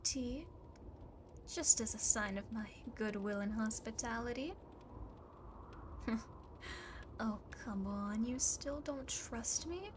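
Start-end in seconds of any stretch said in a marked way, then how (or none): 4.6-7.2 single quiet chuckle; amused huff. Acted. Demon sees guest still distrusts, amused huff. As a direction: huff a small laugh at their doubt.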